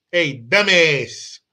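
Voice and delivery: slow, put-on New York street accent; old New York accent. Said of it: "that used to be a fucking New York accent".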